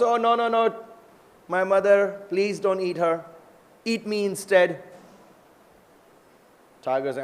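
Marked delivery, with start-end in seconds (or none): 0.0-4.8 lightly acted plea, pitched up; a hint of a begging youngster; pleading calf. Calf begs tiger for mother's life.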